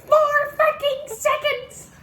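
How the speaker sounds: high screaming laughter; laughing shout. Real, not acted. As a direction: yell while cracking up. Laughing shout at friend's reaction.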